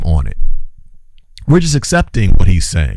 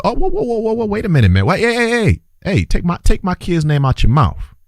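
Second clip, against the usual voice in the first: higher, startled whoas building to a firm warning; alarmed protest; 8 semitones higher than usual. Retold or imitated. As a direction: cut him off, shocked he'd bring up the kids. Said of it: "When he mentioned my children".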